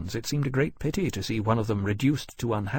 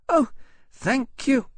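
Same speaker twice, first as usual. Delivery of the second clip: high, grateful small-dragon voice; happy little dragon; slower than usual. A narrator's reading. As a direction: thank them happily as a tiny dragon. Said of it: "leaning happily into the cloth".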